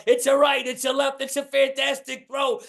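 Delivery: high, excited ringside announcer; mock fight commentary. Comic on stage calling the bar brawl like a boxing announcer. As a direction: call the brawl like a boxing match. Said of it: "I start calling the fight".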